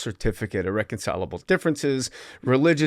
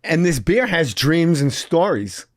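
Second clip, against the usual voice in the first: Christopher Walken voice; 4 semitones higher, slower than usual. Retold or imitated. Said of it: "Christopher Walken's now doing the voice".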